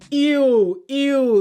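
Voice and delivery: loud, high grossed-out ew; squealed ew of disgust. Real, not acted. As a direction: recoil from something gross. Disgusted reaction to contestant.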